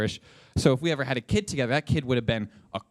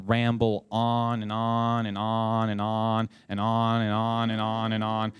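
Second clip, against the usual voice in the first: droning on; 3 semitones lower than usual. Shown as a demonstration. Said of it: "you kinda just".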